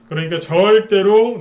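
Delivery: loud, slow, high-pitched warning; emphatic shout. Real, not acted. Stock host warns viewers never to trade in panic, shouting. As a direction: hammer home absolutely never.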